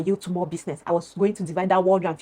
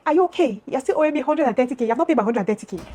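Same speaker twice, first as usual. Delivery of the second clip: angry retort; 5 semitones higher than usual. Retold or imitated. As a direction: fire back, indignant and raised. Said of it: "I got angry".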